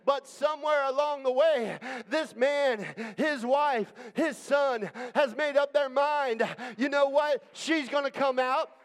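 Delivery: fervent preacher building up; preaching. Acted. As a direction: preach it with fire. Preaching at full force.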